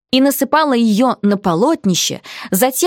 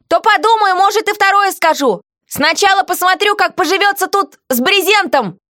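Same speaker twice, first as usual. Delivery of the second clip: high, haggling and cheeky; lightly voiced stubborn prisoner; bargaining heroine; 10 semitones higher than usual. A narrator's reading. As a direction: drive a hard bargain.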